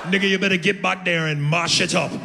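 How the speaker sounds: a fiery Jamaican woman taunting her man; impersonating his Jamaican lover daring him; Jamaican accent. Retold or imitated. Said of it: "Jamaican women by nature are real fiery".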